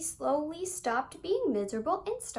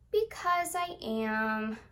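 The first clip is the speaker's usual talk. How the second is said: glum; 2 semitones lower, much slower than usual. Acted. Miserable replies glumly.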